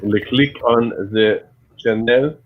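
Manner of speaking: slow French-accented attempt; lightly faked French accent; mock French accent. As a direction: put on a French accent, slowly. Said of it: "No, that's not French enough".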